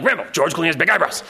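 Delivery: mock-stern owner telling off a dog; firm, mildly hammed-up reprimand; dog scolding. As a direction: scold with nonsense words. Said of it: "but use the same tone".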